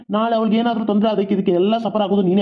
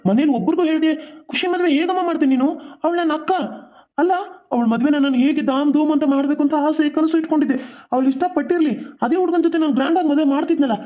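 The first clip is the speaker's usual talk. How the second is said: higher, hurt and angry scolding; upset reproach; 4 semitones higher than usual. Acted. Son scolding his mother for a secret wedding, hurt and angry. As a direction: pour out disappointment at mother.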